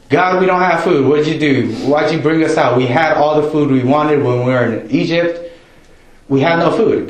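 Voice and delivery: whiny complaining Israelites. Retold or imitated.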